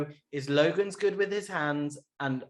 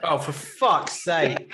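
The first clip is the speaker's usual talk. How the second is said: laughing exasperation; 3 dB louder, much slower than usual. Real, not acted. Reacting to crude joke.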